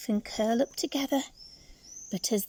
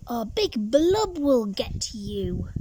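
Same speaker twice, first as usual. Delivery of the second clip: slow, louder spooky warning; ominous warning; 4 dB louder than usual. Acted. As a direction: warn them slowly, like a scary secret. Tadpoles warning of Big Blub.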